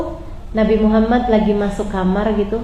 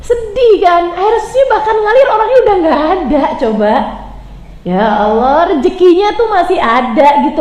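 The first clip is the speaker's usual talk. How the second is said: impassioned; 5 semitones higher than usual. Real, not acted. Preacher urges listeners to feel Khadijah's grief, impassioned. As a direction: drive the pity home.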